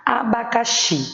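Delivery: Abacaxi with the final XI leaned on; stress on last syllable. Shown as a demonstration. Teacher showing pupils the tonic syllable, stressing XI in Abacaxi. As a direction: say Abacaxi in separated syllables, strongest on XI. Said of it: "O xi é a sílaba tônica".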